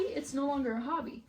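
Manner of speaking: "hobby" in a light American accent; standard American accent. Real, not acted. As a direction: say "hobby" the American way, flat and open. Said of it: "Why do I sound so American?".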